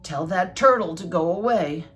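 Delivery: lightly voiced bossy toad; insistent Toad. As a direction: punch the words in an insistent read-aloud order. Toad orders Frog in story.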